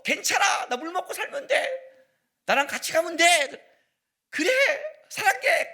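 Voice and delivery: hammed-up sweet romance-drama confession; lovestruck drama girl. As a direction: coo it like a smitten heroine in a youth drama. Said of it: "그러면 여자가 그러잖아요".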